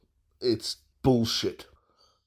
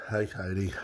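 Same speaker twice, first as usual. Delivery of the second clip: sore-throated, husky morning voice; hoarse voice; 5 semitones lower, 6 dB quieter, faster than usual. Real, not acted. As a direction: talk through a sore throat. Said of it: "forgive the sexy voice".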